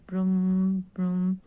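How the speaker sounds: drawn-out car-engine broom; imitated engine noise. Shown as a demonstration. Teacher giving a car riddle to pupils, imitated engine noise. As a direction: hum it like a revving car. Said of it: "has lot of people and goes".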